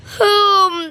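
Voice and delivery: loud drawn-out cow moo. Acted. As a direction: bellow like a complaining cow. Cow bellows in the story. (गाय का ज़ोर से रंभाना)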